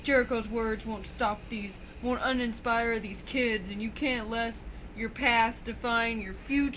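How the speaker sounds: slow, measured mock pep talk; retold inspirational speech. Wrestling fan retelling a wrestler's rousing promo, mildly inspirational. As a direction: lightly imitate an inspirational speaker, drawing phrases out. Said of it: "he starts getting all inspirational speech".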